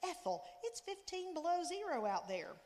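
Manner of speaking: high, loud indignant outburst; thundering. A narrator's reading. Father protests to Ethel about the freezing night, loud and high. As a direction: throw up your hands and protest loudly. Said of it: "my father thundered".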